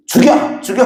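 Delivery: high, sharp mock scream of a furious bride; mock shriek. Bride lunging at her husband, shrieking in mock fury. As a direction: shriek the words like a young wife lunging in rage. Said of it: "이러면서 달려들더래요".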